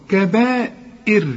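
"كبائر" stopped on a light ra because of the kasra before it; light final ra. Shown as a demonstration. Teacher showing the student the light ra in "كبائر" when stopping. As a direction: end "كبائر" on a thin ra, not a heavy one. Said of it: "شوف إر".

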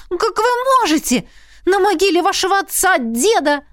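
put-on a scandalised young woman; shocked girl. A narrator's reading. Heroine protests, high.

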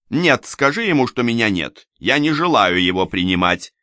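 высокий, надменный женский голос, громче; капризная барыня отсылает гостя; Анна отказывается. A narrator's reading. Анна из-за двери. (высокий надменный голос барыни)

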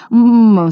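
happy muffled hum through a gag; glad gagged mooing. Acted. Scooperfield gagged, greeting his rescuers with a happy moo. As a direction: moo gladly through the gag, high and loud. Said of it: "снова замычал Скуперфильд".

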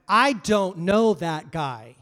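slow, loud, forceful denial; angrier denial. Retold or imitated. Peter angrily denying Jesus to the servant girl. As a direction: bang out each word in anger. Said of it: "saying it more angry every time".

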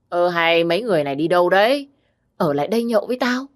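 put-on a touch of drunken slurring, fast; drunken slur. Drunk Nam begging his friends to stay, slightly slurred and fast. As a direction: drunk man calling his friends back, lightly slurred. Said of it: "bằng cái giọng lè nhè của kẻ say rượu".

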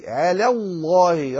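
slow على with thin L, then heavy الله; light lam. Shown as a demonstration. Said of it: "رقق اللام".

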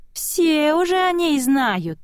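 put-on high, slow eerie child voice; slow high childlike whisper-voice; small spirit voice. A narrator's reading. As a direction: draw it out like a creepy little ghost. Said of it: "голосок".

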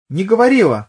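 sharp, high, loud denial; woman snapping back at detective, flaring up. A narrator's reading. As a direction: flare up again, hot. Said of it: "опять вспыхнула она".

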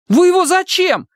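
high, loud squeak of a question; timid chirp. Acted. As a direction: chirp up bravely but small. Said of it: "храбро чирикнул".

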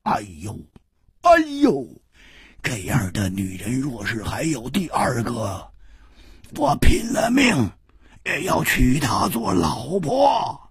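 high, loud, gushing praise; 拍掌狂喜; rapturous Hu. A narrator's reading. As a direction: swear it with wild enthusiasm. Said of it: "胡铁花一拍巴掌说".

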